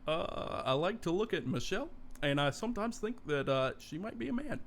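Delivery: lightly voiced Obama, fast; a hint of Obama's halting style; Obama impression. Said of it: "can you do an Obama impersonation".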